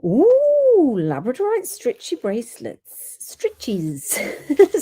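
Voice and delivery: slipped into a South African accent; a light South African twang on the words. Real, not acted. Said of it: "a bit of a South African accent slipped in there".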